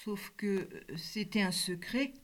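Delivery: soft, drained and toneless. Acted. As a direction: let the voice go blank. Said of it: "Ma voix blanche".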